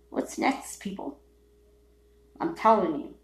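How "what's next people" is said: whisper. Real, not acted. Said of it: "What's next, suckers".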